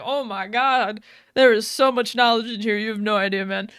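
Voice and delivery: loud, gushing retold excitement; excited, happy. Cortana delighted by knowledge in the computer, excited and happy. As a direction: gush happily, punching the volume. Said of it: "she gets real excited. She gets all happy".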